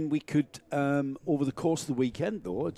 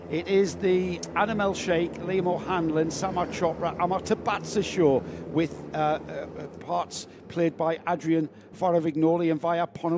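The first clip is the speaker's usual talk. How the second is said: race commentary; 3 semitones higher than usual. Acted.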